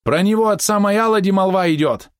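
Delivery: very high, alarmed wail; horrified. A narrator's reading. Helmsman warns of One-Eye's dark fame, horrified. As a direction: cry it out as a dire warning. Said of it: "в голосе кормчего зазвучал ужас".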